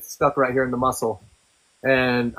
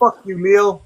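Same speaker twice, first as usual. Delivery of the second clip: higher, louder spiteful snap as her; a hint of an angry woman spitting the words; mock angry girlfriend; 5 semitones higher, 5 dB louder, slower than usual. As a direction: imitate her cursing him out. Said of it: "And she goes".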